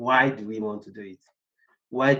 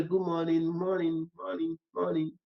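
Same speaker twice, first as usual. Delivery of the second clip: higher-pitched round of hellos; call greeting; 5 semitones higher, 5 dB quieter than usual. Shown as a demonstration. Telling the team to greet on joining a call, higher-pitched greeting. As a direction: greet each colleague lightly in a raised voice.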